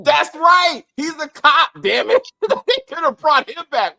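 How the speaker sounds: loud, high burst of agreement; excited realisation. Real, not acted. Co-host realising they could have brought a character back, excited. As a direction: exclaim it as it suddenly clicks.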